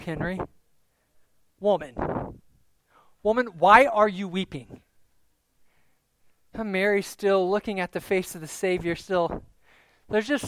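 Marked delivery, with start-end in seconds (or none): 1.6-4.8 mild, firm reproof; gentle rebuke. Acted. Gardener asks the weeping woman why, in gentle rebuke. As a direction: gently chide her with the question. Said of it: "kind of like a rebuke".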